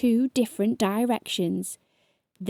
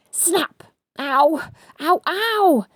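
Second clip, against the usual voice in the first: higher, louder yelps; cried out; 6 semitones higher, 4 dB louder, slower than usual. A narrator's reading. Both bitten again, yelps of pain. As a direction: yelp once more. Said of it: "they both cried once more".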